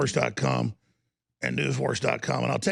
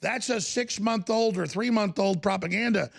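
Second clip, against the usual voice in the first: mock Dana Bash; 5 semitones higher than usual. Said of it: "She's like".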